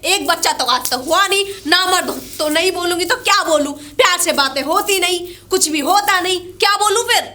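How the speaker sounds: heated, scornful tirade; angry berating. Acted. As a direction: berate him and demand an answer. Wife berates husband in quarrel.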